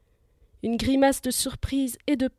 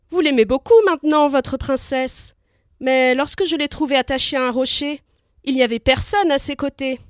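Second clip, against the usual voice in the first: mocking; 2 semitones higher, 5 dB louder than usual. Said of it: "d'un air moqueur".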